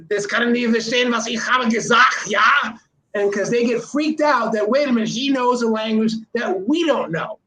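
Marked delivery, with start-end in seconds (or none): 0.1-2.4 put-on lightly done Terminator German accent; mock-stern German accent like the Terminator; a hint of a robotic German accent. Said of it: "a Terminator type accent".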